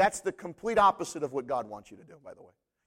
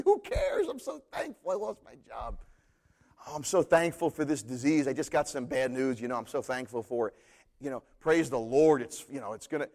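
mock pious; 2 semitones lower than usual. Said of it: "phony baloney when somebody goes".

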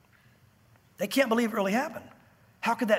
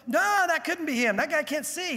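higher-pitched dismissive objection; acted disbelief, pitched up; disbelieving bystander; 6 semitones higher than usual. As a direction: dismiss it as impossible.

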